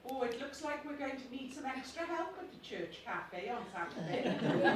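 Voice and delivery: put-on lightly Welsh-accented church lady; a touch of Welsh lilt, friendly. Role-playing Mrs Jones at the church cafe, lightly Welsh. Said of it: "Are you Welsh?".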